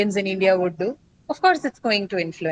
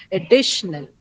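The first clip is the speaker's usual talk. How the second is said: "additional" with stress on the second syllable, "di". Shown as a demonstration. Teacher showing students where English stress falls, stressing "di" in "additional". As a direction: draw out the "di" in "additional" a little. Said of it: "pronounced a little longer and louder".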